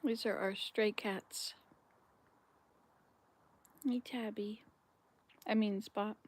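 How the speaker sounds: real unvoiced whisper; whispering beside the stray cats. Real, not acted. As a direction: whisper so the cats don't bolt.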